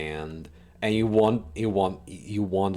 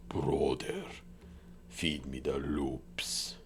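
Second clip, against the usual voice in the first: whispered meme quote; 5 semitones lower, 9 dB quieter, slower than usual. Retold or imitated. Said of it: "Someone was referencing the".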